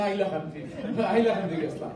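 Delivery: হাইলাকান্দি said with the h dropped, as "ailakandi"; Sylheti pronunciation. Retold or imitated. Lecturer laughingly imitating how Sylhetis say Hailakandi: no h. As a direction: drop the opening h of হাইলাকান্দি the Sylheti way. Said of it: "কেউ হাইলাকান্দি কইতে পারে না".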